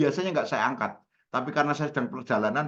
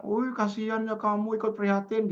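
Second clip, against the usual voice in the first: pretend sympathy; 8 semitones higher than usual. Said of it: "Anda akan bilang".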